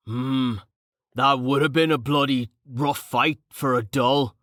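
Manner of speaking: lightly voiced burly fighter, thinking aloud; a hint of a rough brawler musing; boisterous, rough-spoken Carten, sobered.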